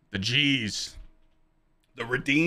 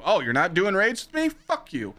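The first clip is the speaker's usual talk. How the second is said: imitating viewers; 9 semitones higher than usual. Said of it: "That's how it would happen".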